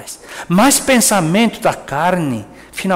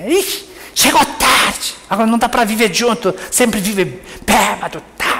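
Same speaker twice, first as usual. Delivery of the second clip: exasperated wife complaining; 3 semitones higher than usual. Retold or imitated. Wife complaining at husband who came home drunk, mildly exasperated. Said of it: "Não, você não fala assim".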